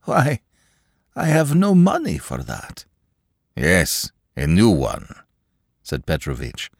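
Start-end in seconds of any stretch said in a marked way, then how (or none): 0.0-2.8 timid clerk. Acted. Akaky high, timid. 3.5-5.1 calm composure. Acted. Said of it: "with barbarous composure".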